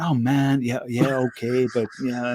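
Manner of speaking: a hint of American accent; half-hearted take on an American pilot; American pilot impression. Retelling the pilot's reply to the cameraman, loose American accent. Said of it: "'cause the guy was American".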